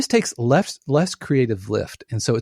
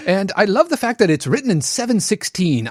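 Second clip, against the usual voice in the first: sarcastic editor; 6 semitones higher than usual. Retold or imitated. Mocking an editor's sarcastic complaint.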